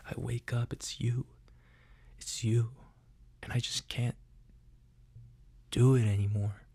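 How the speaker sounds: halting, hammed-up confession with long pauses; mock love confession. Podcaster confessing seven years of secret love, melodramatic. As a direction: blurt out a heartfelt plea, playing it up.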